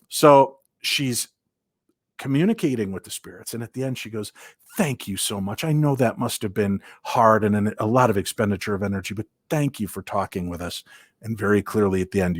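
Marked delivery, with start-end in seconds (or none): 4.8-10.8 polite and sweet. Retold or imitated. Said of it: "very polite and sweet".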